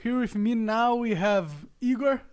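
put-on English with a heavy Brazilian accent; slow mock podcast host intro in Brazilian-accented English; english accent portuguese. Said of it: "o sotaque é uma merda mesmo".

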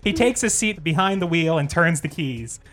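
measured script read-through; screenplay narration. Acted. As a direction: read the scene heading like a trailer. Reads screenplay aloud.

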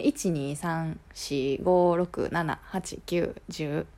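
tentative count in Tokyo-style accent; attempted standard Japanese. Shown as a demonstration. Puzzling out standard Japanese counting, attempted standard accent. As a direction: try counting with standard pitch, unsure of it. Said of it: "標準語がわからん".

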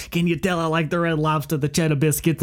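lightly voiced, pleased instructor with an accent; comic put-on accent; instructor impression. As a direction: imitate the instructor joking with the class. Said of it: "He was like".

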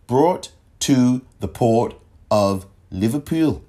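slow, deliberate mock Liverpool accent; bad Liverpool accent. Shown as a demonstration. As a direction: do a deliberately poor Scouse accent. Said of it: "my worst Liverpool accent".

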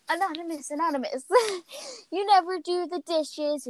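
nagging a lazy sibling, half-acted; mean scolding. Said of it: "you see how mean she is".

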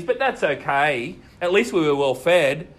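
grumbling Israelites. Retold or imitated. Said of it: "They grumble and argue against God".

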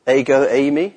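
"ego eimi" said as EH-go AY-mee, careful Greek. Shown as a demonstration. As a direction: sound out "ego eimi" syllable by syllable. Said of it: "is that correct pronunciation?".

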